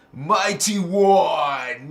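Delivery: loud, very slow hail; drawn-out calling out. Real, not acted. Hailing a viewer by name, loud drawn-out call. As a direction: stretch both words into a big shout-out.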